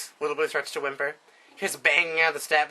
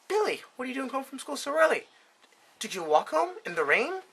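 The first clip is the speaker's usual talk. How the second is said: higher, fussing mom voice; worried mother; 6 semitones higher than usual. Acted. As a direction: play the anxious doting mother. Mother voiced in a joke story.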